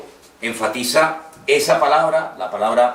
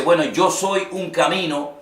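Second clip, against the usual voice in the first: mock hesitant; 3 semitones higher than usual. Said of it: "Él no dice".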